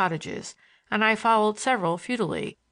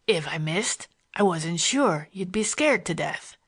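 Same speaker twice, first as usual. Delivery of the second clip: Morgan's voice; slower than usual. A narrator's reading. Morgan taunts the narrator in his Western voice, amused. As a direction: needle him with easy, sly mockery.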